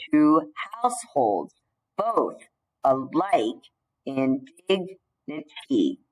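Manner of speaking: slow, every second syllable stressed, like scanning verse; recited in iambic meter. Shown as a demonstration. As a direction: read it out beating the iambs. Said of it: "this is from Shakespeare".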